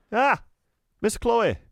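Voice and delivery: high, bright-eyed hello; delighted shopkeeper greeting. Acted. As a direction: greet her like a favourite customer. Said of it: "said Raj as she entered the shop".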